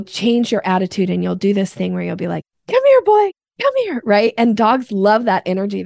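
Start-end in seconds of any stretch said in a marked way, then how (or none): 2.7-4.0 much higher, bright and eager call to a dog. Shown as a demonstration. To dog lovers, demoing an excited dog call. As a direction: call a dog like you're thrilled to see it. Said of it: "you'll change your voice".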